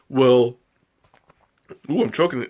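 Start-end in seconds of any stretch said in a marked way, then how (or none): 1.9-2.5 hiccup mid-sentence. Real, not acted. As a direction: talk through the hiccups. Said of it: "I'm, uh, hiccuping again".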